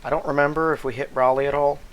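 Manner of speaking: sore, strained throat; talking through a sore throat; swollen tonsils voice. Real, not acted. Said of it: "Sorry about my, my voice and possibly my throat".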